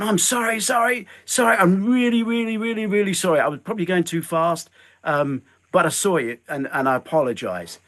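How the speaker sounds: high, rushed over-the-top sorry; fake-sincere fluster to win him over; gushing apology. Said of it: "I just went".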